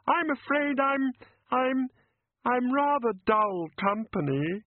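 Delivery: high, tearful fairy voice; a teary fairy apologising; weepy fairy. Acted. The fairy apologises to the wrangler, tearful and high. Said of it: "She blew her nose noisily".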